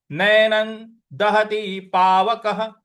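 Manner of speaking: whole line intoned slowly and clearly; slow recitation. Shown as a demonstration. Teacher recites the full line slowly for students. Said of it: "तो पूरी पंक्ति क्या बन रही है".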